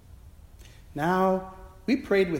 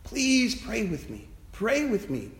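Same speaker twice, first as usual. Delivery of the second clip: imitating a sob; 5 semitones higher than usual. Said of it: "he sobbed".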